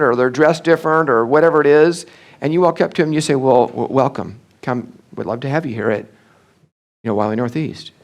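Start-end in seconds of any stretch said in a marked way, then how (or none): 3.3-7.9 reluctant welcome. Shown as a demonstration. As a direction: welcome them while clearly uneasy. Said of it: "They just heard, "You don't want me here".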